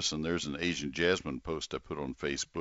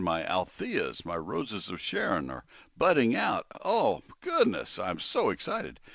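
mock excited gardener; 5 semitones higher than usual. Host imitating thrilled listener, mock excited squeal. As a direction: voice leaps up on oh goodness. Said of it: "get all excited".

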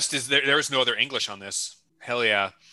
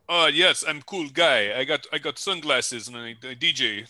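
cool DJ character. Retold or imitated. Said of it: "a chip with crab arms D J ing".

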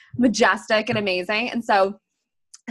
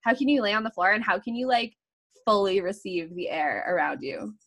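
breathing guidance. Shown as a demonstration. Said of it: "I'm like".

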